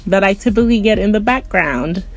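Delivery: boxed-in closet sound; small cramped room acoustics; recording in a closet. Real, not acted. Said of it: "I am recording from my closet to minimize the amount of noise".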